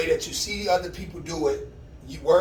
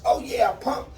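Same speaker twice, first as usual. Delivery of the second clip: higher, bouncy pumped-up voice; happy energy; 8 semitones higher than usual. Retold or imitated. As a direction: sound thrilled and pumped. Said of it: "I got that happy energy".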